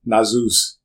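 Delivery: slow drawn-out reversed name; backwards speech. Shown as a demonstration. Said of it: "her name backwards".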